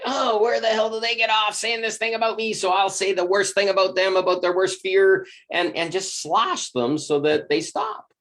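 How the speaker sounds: the hurt ego lashing back; mock indignant. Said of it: "It's like".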